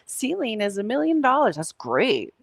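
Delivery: lightly mock the bragging ego. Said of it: "let your ego come in and be like".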